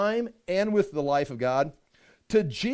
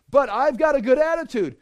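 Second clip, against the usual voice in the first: higher, louder whiny protest; mock objector; 5 semitones higher, 5 dB louder than usual. Imagined sinner protests to the preacher, high smug whine. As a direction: play the smug sinner defending himself.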